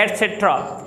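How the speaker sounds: एटसेट्रा said as one word, et-set-ra; correct pronunciation. Shown as a demonstration. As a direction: model एटसेट्रा run together. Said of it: "एट से टेरा नहीं पढ़ा जाता है". (एटसेट्रा एक शब्द में बोलना)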